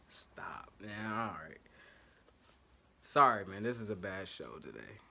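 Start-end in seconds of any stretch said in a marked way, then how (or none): 0.1-1.6 a quick unvoiced stop under his breath; whispered to himself. Real, not acted. Vlogger cutting himself off after a flub, whispered. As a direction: hush yourself after the slip.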